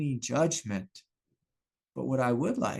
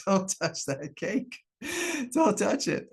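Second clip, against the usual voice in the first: mock stern dad; 8 semitones higher than usual. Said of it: "You know, like".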